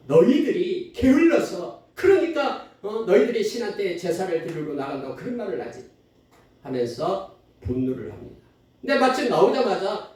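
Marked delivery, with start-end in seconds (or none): 0.1-5.9 raised, scolding royal accusation; angry Pharaoh. Acted. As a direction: play an angered king, louder and higher at the start. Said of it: "바로 왕이 막 화가 나서 말합니다".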